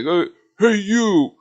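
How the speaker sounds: mock call from strangers spotting a tall kid. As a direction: shout hey to get his attention. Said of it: "everybody was like".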